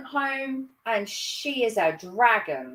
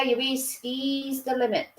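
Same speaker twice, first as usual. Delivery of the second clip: put-on Norfolk accent; 3 semitones higher than usual. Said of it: "I lose my Norfolk accent on sometimes".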